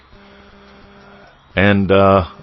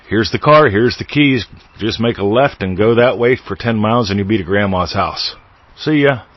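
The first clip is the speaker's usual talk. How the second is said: mock breezy parent; 2 semitones higher, 3 dB louder than usual. Handing keys to seven-year-old.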